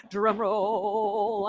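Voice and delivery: soft, drawn-out drum roll call; mock drum roll. Host builds suspense before naming trivia winners, mock drum roll. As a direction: stretch it out like a rolling drum.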